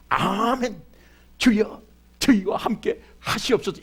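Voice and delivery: "아멘, 주여, 저희와 함께 하시옵소서" said with hopeful conviction; right way to respond. Shown as a demonstration. Pastor shows the congregation the right answer: an eager, believing amen. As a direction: answer the blessing like you mean it. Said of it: "이렇게 꿈을 가져야 돼".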